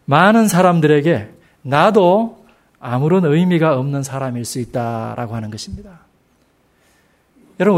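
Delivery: usual speaking voice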